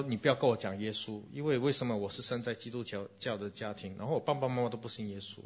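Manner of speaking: imitating his younger self snapping in frustration; retold anger. Pastor recalls telling a friend off, mock angry. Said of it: "我就很生气，我说".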